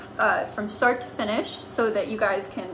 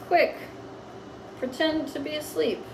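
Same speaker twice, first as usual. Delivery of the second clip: slow dictation; 3 semitones higher, 8 dB quieter, slower than usual. Shown as a demonstration. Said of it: "slow dictation while writing".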